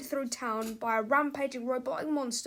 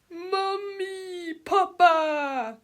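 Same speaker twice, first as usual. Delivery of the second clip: put-on higher childish calling out; childlike cry; 6 semitones higher, 5 dB louder, much slower than usual. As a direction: run to your parents. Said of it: "cried Mister Krupp".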